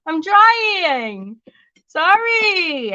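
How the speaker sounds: high, whiny mock-crying pleas; mock whimper. Mom to watching viewers, high whiny mock crying. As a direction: pretend to whimper for sympathy. Mock whine, cry heard.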